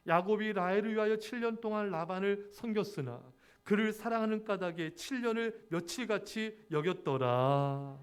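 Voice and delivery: measured, slowing formal Bible reading; scripture reading. Acted. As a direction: read the verse with reverent weight. Reads scripture aloud.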